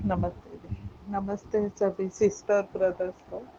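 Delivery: faint, far from the mic; too soft to hear clearly; barely audible. Real, not acted. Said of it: "आपकी आवाज़ थोड़ी कम आ रही है".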